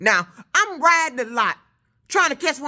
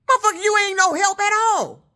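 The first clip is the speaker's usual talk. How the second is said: higher, exasperated jab at the worker; fed-up outburst; 7 semitones higher than usual. Real, not acted. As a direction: throw it at him, disgusted. Trucker fed up with yard worker.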